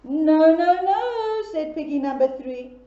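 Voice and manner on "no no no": firm no. Acted. Piggy three refuses firmly.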